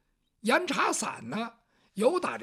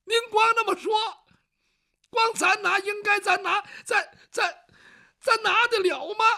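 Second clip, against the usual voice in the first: much higher and louder, sobbing through laughter; laughing-crying wail; 10 semitones higher, 6 dB louder than usual. Acted. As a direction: wail at the absurdity. Servant wailing half laughing half crying.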